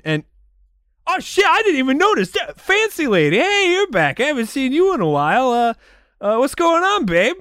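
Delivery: stoner bros. Acted. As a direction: freak out like a clueless stoner. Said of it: "will be like".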